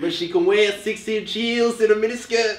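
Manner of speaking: weak, bad attempted Australian accent. Friends taking turns doing accents, attempted australian accent. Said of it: "2 of those words sounded Australian".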